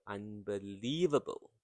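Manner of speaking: "unbelievable" with a stretched, stressed "lie"; word rhythm. Shown as a demonstration. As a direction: let the third syllable of "unbelievable" carry the beat. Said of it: "you can hear the rhythm".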